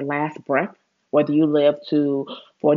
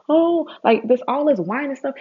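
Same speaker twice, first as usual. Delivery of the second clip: much higher, parody of whining; mock whining; 9 semitones higher than usual. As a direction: mimic a moaning complainer. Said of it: "Stop talking about".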